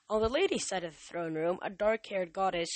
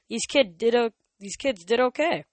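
casual Apollo voice; 5 semitones higher, 7 dB louder than usual. A narrator's reading. Apollo praises the kids.

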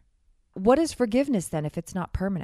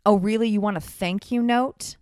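passive aggressive; 2 semitones higher than usual. Retold or imitated. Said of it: "passive aggressive and said".

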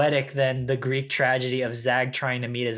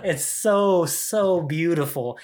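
choked up; 4 semitones higher, slower than usual. Real, not acted. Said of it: "I'm getting too emotional".

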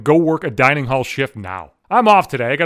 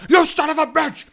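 shrieked much higher, full mock scream; imitated shriek; 12 semitones higher than usual. Boss screaming at the prankster, high mock shriek. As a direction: screech it like a furious boss. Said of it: "at the top of her fucking lungs".

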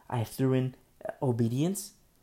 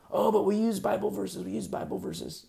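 mock objection; 7 semitones higher than usual. Mocking opponents' defense.

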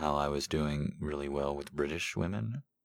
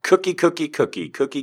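calling out; 13 semitones higher, 11 dB louder than usual. Real, not acted. Calling out to caller.

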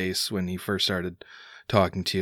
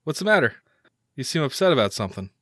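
higher-pitched questioning son; concerned son; 5 semitones higher, much faster than usual. Acted. Son checks on his upset dad, lightly concerned. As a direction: ask dad lightly what is up. GM voices son greeting father.

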